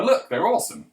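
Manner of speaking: high, gushing admiration; mock hype. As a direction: show them off with exaggerated enthusiasm. Voicing the hype crowd again.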